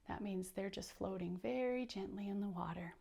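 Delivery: soft unvoiced aside; whisper. Real, not acted. Reader whispers the meaning to the little listeners.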